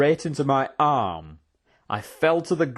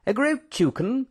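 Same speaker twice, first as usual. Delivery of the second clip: high-pitched, rising disbelief; startled exclamation; 14 semitones higher than usual. A narrator's reading. Professor to Mister Tando, startled exclamation. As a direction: exclaim it as an astonished question. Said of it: "exclaimed the Professor".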